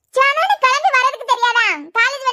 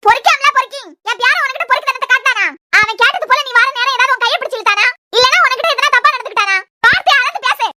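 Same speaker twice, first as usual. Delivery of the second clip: angry scolding. Acted. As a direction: tell her off hard, building to the end. Grandmother scolds woman in quarrel.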